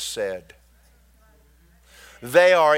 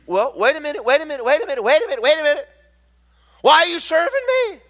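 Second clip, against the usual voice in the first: building outburst; 7 semitones higher, much faster than usual. Acted. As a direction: build up to an indignant why. Preacher's indignant interruption.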